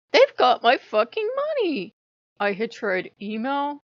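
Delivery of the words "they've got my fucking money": higher, louder, slow furious yell; angry outburst. Retold or imitated. Vlogger reenacting her own furious outburst at the shop. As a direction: let the inner antisocial self snap out loud. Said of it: "the antisocial bitch I always am took over".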